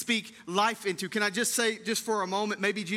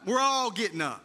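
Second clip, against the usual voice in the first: much higher and louder playful yell; mock shout; 4 semitones higher, 4 dB louder than usual. Jesus calling without a name, a playful mock shout. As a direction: shout it like everyone will rise. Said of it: "Had he just walked".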